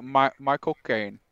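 slow, halting try at a British "my cocaine"; attempted British accent. Shown as a demonstration. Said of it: "I can't even do it".

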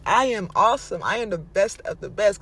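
loud, emphatic self-praise; proud affirmation. Shown as a demonstration. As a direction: declare it proudly, punching the key words. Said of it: "I can say so proudly".

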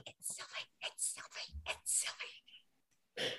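panicked voiceless whisper; silent freak-out. Acted. Cerulean realizes it is Sylvie, whispered panic. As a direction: freak out almost without a sound, repeating it. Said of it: "freaking out silently".

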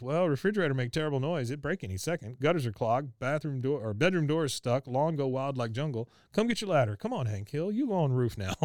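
rattled-off chore list in imitated Laotian accent; hammed-up Laotian accent, building to pushy orders; imitated Laotian-accented English. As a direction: boss a neighbor around in mock Laotian accent. Voices Min ordering Hank to chores.

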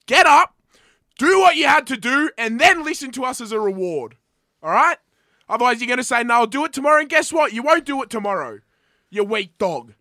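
loud, high, coach-style shouting; motivational yelling. Acted. Co-host yelling listeners into action, coach-style shout.

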